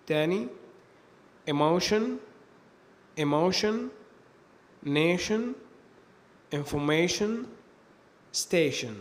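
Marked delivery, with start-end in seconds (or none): 1.5-8.9 "emotion", "nation", "information", "station" ending in shen; tion as shen. Shown as a demonstration. Teacher giving examples of the tion ending, "emotion", "nation", "information", "station" with shen. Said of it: "تنطق هذه السلسلة شن".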